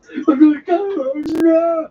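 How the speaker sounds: high, wailed gibberish; unintelligible surgeon imitation. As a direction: babble loudly in drawn-out nonsense sounds. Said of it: "too unintelligible for the hospital".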